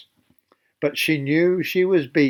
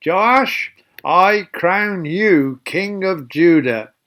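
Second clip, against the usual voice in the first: a raised, slow royal proclamation; proclaiming shout; slower than usual. Acted. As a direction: crown the boy king for the whole crowd to hear. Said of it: "made me stand ... and shouted".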